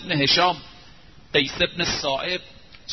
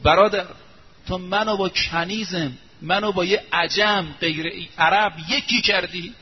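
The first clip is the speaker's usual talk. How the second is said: protesting. Retold or imitated. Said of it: "با اعتراض برگشت".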